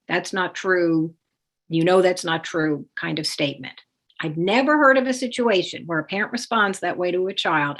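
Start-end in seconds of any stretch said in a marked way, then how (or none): 0.1-2.9 defensive retort. Retold or imitated. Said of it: "you respond with a defensive".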